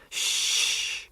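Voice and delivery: whispered shh; hushing. A narrator's reading. Alice hushing Charlie, whispered shh. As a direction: hush him urgently under breath.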